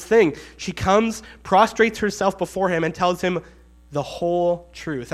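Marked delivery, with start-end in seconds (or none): 3.9-5.1 "whole" drawn out slowly, then "truth"; stress on whole. Shown as a demonstration. Preacher quoting what she told him, stressing "whole". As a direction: lean slowly on the word "whole". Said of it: "I love that emphasis".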